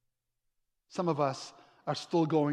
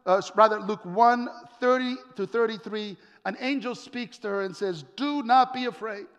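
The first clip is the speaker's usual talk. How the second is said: raised, ringing sermon delivery; full-voiced preaching; 4 semitones higher, 4 dB louder than usual. Preacher telling a congregation of the angel's news, proclaiming.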